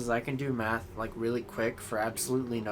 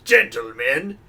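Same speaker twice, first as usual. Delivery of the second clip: loud proud call; announcing shout; 3 semitones higher, 8 dB louder, slower than usual. Retold or imitated. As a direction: boom it like a game announcer. Quoting game character.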